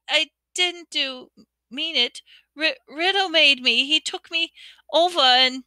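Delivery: high, broken, stammering through tears; a frightened girl confessing through tears; tearful sobbing girl. Acted. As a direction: sob it out, tripping over every word. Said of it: "tears began to run".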